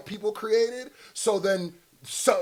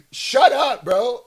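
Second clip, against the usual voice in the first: louder, higher shut up; exasperated shout; 6 semitones higher, 9 dB louder, slower than usual. Real, not acted. Streamer shouting down the other streamer, exasperated. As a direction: cut him off, fed up.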